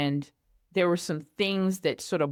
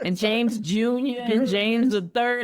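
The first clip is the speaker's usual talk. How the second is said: laughing; 4 semitones higher, 3 dB louder than usual. Real, not acted. Joking about ruining son.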